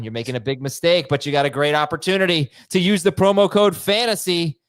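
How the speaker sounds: lively sponsor read for Bet MGM. Acted. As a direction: sell the promo code brightly.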